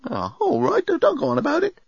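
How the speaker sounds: high, sulky bellbot grumble; robot sulking, put out. A narrator's reading. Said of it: "The robot went all sulky".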